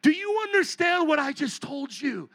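can't believe they're walking off; incredulous. Retold or imitated. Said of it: "And I'm like thinking".

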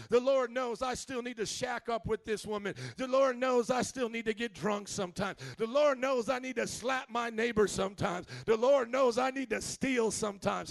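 a hint of a whiny hypocrite; mocking excuse-maker. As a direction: parody the self-justifying churchgoer. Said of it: "this sounds silly".

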